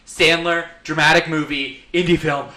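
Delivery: imitating a wound-up caller in short bursts; mock out of breath. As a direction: lightly act winded with excitement. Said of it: "like, panting out of breath".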